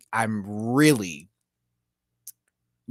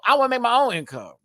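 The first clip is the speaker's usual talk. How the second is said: mock minivan mom; 10 semitones higher, 5 dB louder, faster than usual.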